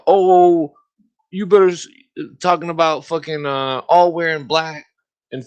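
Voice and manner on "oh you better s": high, loud sneering mimicry; mock the threat, pitch up; mocking commie post. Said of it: "commies saying".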